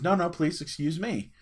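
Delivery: politely insist, voice lifted. Retold or imitated. Polite man answers the kid's apology, courteous and insistent. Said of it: "He's very polite".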